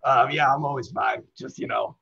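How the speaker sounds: gravelly heroic voice, like gargling whiskey; gruff, proud local hero. Pretend. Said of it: "sounds like you've been gargling with whiskey and gravel".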